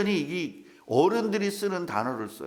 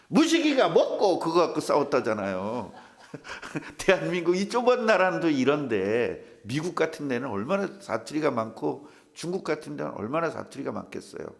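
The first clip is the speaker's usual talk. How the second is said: ordinary talk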